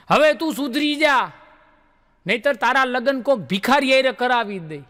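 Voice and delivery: hammed-up mother telling her girl off; mother scolding. Mother scolds her daughter about marrying a beggar, mock angry. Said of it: "એની દીકરીને ખીજાતા હતા".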